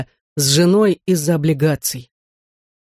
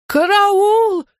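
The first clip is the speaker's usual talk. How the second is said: panicked scream. A narrator's reading. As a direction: shriek for help in a panic. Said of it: "всполошно заорала". (всполошный пронзительный крик)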